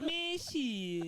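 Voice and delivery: put-on high-pitched caricatured Black American accent. Comic playing an Irishman, in a Black American accent. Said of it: "can you do a black accent of someone".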